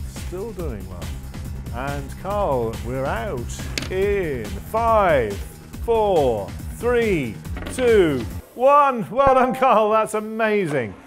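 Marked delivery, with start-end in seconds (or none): 3.9-9.1 loud, spaced-out countdown; booming host counting down the clock; final-seconds countdown. Acted. 9.1-11.0 loud, high, triumphant presenting; big game show host cheer; excited host congratulations. Acted. Host cheers as time runs out.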